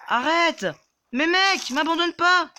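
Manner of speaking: high, loud panicked begging; desperate plea. Real, not acted. Gamer begging his teammate not to abandon him, panicked. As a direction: beg him not to leave.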